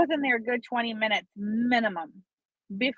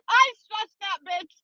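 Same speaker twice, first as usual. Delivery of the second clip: laughing; 10 semitones higher, 4 dB louder, slower than usual. Real, not acted. Laughing while telling.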